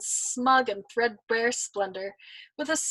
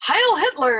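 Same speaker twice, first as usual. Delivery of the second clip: louder, retold triumphant shout; mock shout; 7 semitones higher, 8 dB louder than usual. Old man recalling cheering the Germans, mock shout. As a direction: cheer it like a crowd.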